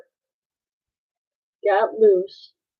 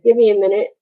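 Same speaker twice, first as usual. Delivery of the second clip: calling out; 2 semitones higher, 6 dB louder, faster than usual. Retold or imitated. Calling through the door.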